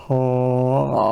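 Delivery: tight, squeezed throat sound; pinched voice. Shown as a demonstration. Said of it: "I'm, like, tightening my throat".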